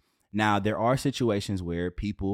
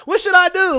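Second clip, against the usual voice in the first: squeaky mock plea, much higher and louder; high pleading voice; 12 dB louder than usual. Shown as a demonstration. Partner pleading for advice in a high squeal. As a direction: ask it like a desperate partner, high and loud. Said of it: "Not daddy, but".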